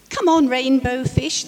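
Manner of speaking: high, loud playful call. Acted. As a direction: call across the reef to a friend. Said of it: "they'd call".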